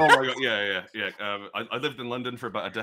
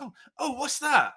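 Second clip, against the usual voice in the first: curious local; 7 dB louder than usual. Retold or imitated. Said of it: "I can't do a proper Cumbrian accent".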